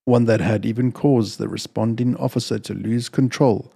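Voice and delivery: measured, somber reading of a crime tale; calm, even storytelling voice with a dark undertone; story narration. A narrator's reading. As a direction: read it like a steady audiobook narrator. Reads chapter of dark story.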